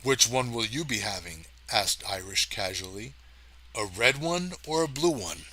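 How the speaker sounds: lightly attempted Irish accent; a hint of Irish brogue. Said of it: "not an Irish accent".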